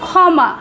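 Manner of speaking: ক্ষমা said as "khoma" with an aspirated খ; ক্ষমা, ক্ষ খ-এর মতো; kh sound. Shown as a demonstration. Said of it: "উচ্চারণ হয় ক্ষয়ের মতো".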